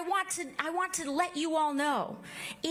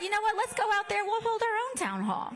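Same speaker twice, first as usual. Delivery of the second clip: excited call to action; 7 semitones higher than usual. Retold or imitated. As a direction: pitch it up like rallying the team. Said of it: "So we said".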